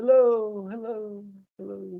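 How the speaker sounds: fading, echoing voice.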